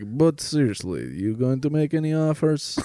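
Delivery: mock Russian-accented negotiating; her Russian accent. She asks him for offers, imitated Russian accent. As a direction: put on a playful Russian accent. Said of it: "do it with that accent".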